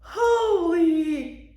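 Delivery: high, loud disbelief; stunned surprise. Real, not acted. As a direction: gasp out in disbelief. Stunned by the gift.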